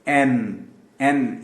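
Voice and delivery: "این" starting on a clean sharp vowel; drawn-out model "این", no y glide; correct letter N. Shown as a demonstration. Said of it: "یہ بھی ین نہیں".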